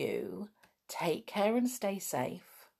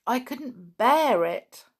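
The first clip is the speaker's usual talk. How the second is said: frightened; 5 semitones higher, 6 dB louder, slower than usual. Acted. George frightened of being trapped.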